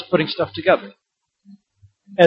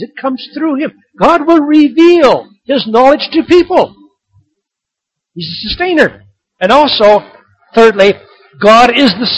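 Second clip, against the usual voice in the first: full-force sermon voice; preaching; 6 semitones higher, 5 dB louder than usual. Acted. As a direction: declare it from the pulpit. Preaching builds.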